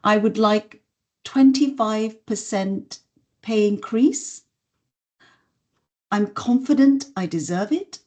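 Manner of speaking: unsure rising tune at the end of each phrase; upspeak. Shown as a demonstration. Asking for a pay rise with upspeak. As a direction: ask for the raise as if questioning it. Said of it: "I said it like this".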